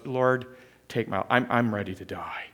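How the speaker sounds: mild depressed voice. Acted. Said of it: "Jonah is so depressed, he goes".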